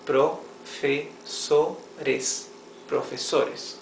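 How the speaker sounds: "Profesores" said in four clear syllables, pro-fe-so-res; syllables clearly. Shown as a demonstration. Teacher showing students the four syllables, carefully. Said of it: "Four syllables".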